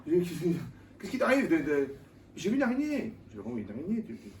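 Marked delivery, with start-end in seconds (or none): 0.1-3.1 high, loud startled voice; mock fright. Preacher mimics a woman scared by a spider, high and loud. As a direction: play the woman panicking at a spider.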